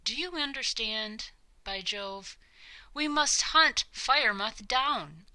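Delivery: put-on an obsessed old king who cannot stop talking of Firemouth. King Minos ranting about the beast.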